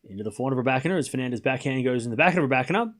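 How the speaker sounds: quick, running tennis rally commentary; live play-by-play. Real, not acted. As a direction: follow the ball shot by shot, fast.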